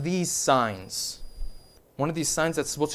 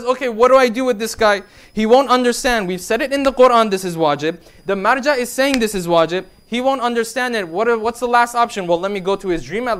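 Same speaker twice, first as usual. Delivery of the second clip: loud, raised-pitch exasperation; exasperated Imam; 4 semitones higher, 6 dB louder than usual. Retold or imitated. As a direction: act out running out of options with someone. Imam's exasperation, acted.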